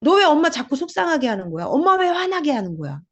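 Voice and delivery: whine-scold like a hurt, angry mom; upset mother scolding. Retold or imitated. Imitating a mother blaming her child, upset and scolding. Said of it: "엄마들 많이 얘기해줘".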